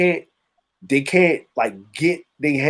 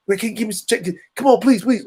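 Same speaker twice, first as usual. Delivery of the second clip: pleading addict; 5 semitones higher, faster than usual. Retold or imitated.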